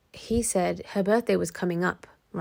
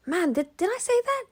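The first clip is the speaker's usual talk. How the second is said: doubting herself; 11 semitones higher than usual. Retold or imitated. Voicing self-doubt of gaslit person.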